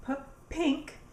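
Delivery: "p" popped alone, then "pink"; first sound split off. Shown as a demonstration. Teacher giving another P word, first sound split off. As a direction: isolate the p before "pink". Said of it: "another word that begins with P".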